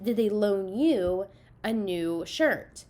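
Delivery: slow, with "you" drawn out and leaned on; stress on you. Shown as a demonstration. Teacher explaining the tricky question, slowly stressing "you". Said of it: "Did they give".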